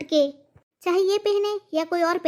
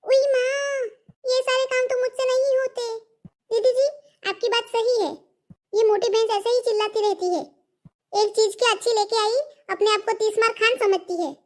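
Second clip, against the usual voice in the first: higher, whining daughter-in-law voice with a giggle; whiny daughter-in-law; 3 semitones higher than usual. Acted. Daughter-in-law whines about chores and mocks mother-in-law, higher. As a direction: complain in a higher, pampered voice.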